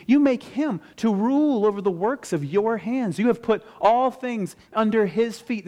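high, fervent preaching voice; impassioned psalm recital. Acted. Preacher praying the psalm before the congregation, fervent recital. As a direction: lift the voice in wonder at God.

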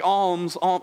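put-on beggar's call in a British accent; lightly put-on British beggar's cry. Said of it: "probably in a British accent".

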